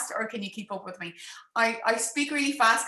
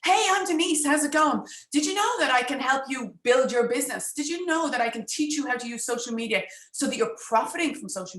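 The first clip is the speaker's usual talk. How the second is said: pushy stranger. Retold or imitated. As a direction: gush at the neighbour like a pushy salesperson. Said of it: "stick my hand out and I say".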